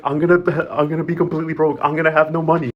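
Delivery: lightly voiced whiny villain, in a different timbre; mock whining. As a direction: play her as a self-pitying schemer. Broke villain whines to Fabiana.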